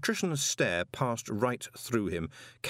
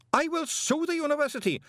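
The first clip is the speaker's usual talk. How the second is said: much higher shrill shriek; screamed threat; 3 dB louder, faster than usual. Acted. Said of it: "screamed Greeningham".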